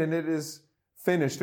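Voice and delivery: a calm, content close, no drama; satisfied, not shouted. Retold or imitated. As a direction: say it like a son telling his dad the job is done. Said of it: "I really see a different tone of voice".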